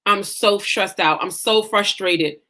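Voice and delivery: slow, low recital of exhaustion; imitating own worn-out moaning; retold tired complaint. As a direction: drag out each complaint wearily. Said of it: "And I kept saying it".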